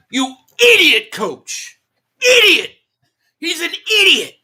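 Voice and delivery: high pitched, exasperated cry of idiot; exasperated outburst. Real, not acted. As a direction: blurt it out in disbelief at the coach. Ranting at the coach on stream.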